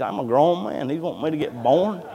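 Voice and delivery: mock-indignant grown man; incredulous retort. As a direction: protest it in baffled disbelief. Indignant quote of baffled mechanic.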